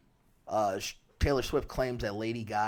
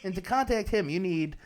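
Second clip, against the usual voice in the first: put-on Southern accent; 7 semitones higher, 4 dB louder than usual. Continues the Southern witch bit.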